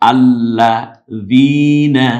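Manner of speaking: আল্লাযীনা begun on "a", loud and very slow; opening zabar, stretched. Shown as a demonstration. Teacher starts afresh after stopping, stretched recitation. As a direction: chant আল্লাযীনা with a long held ee. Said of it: "জবর ধরে আমরা পড়ব".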